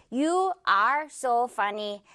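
"You are so funny" word by word, like a robot; stiff, robotic. Shown as a demonstration. Teacher shows learners how people don't talk, robotic. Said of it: "이렇게 딱딱하게 로봇처럼 이야기하지 않죠".

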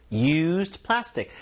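drawn out slowly for learners; very slow, syllable by syllable. Shown as a demonstration. Teacher slowing down so students can follow. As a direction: spell it out slowly with the voice. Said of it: "이미 사용된 뭔가의 플라스틱".

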